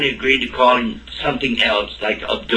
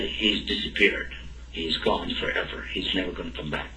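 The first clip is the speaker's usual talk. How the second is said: grief-stricken; 5 semitones lower, 8 dB quieter than usual. Retold or imitated. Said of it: "just started crying".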